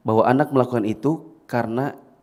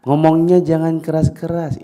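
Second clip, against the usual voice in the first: raised, slow, higher-pitched admonition; loud telling-off; 6 semitones higher, 6 dB louder, slower than usual. Shown as a demonstration. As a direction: say it loudly and drawn out. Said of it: "itu keras".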